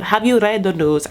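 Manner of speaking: half-hearted attempt at a Russian accent; badly faked Russian accent with reworked vowels; botched Russian accent. Girlfriend asking whether he's seen the news, badly faked Russian accent. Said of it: "I can't do, like, a Russian accent".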